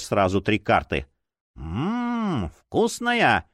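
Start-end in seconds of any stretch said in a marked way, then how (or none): 1.6-3.5 high, squealing relish. A narrator's reading. Playing card tastes a victim, high squeal. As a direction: squeal with hungry delight. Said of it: "провизжала одна из них".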